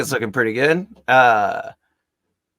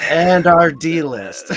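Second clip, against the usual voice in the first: loud, slow grand announcement; dramatic announcer; 5 semitones higher, 10 dB louder, slower than usual. Acted. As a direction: boom it out like a show host.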